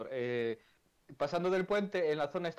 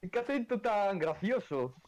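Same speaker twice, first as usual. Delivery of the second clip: imitated admirers; 5 semitones higher, slower than usual. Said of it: "No, algunos dicen".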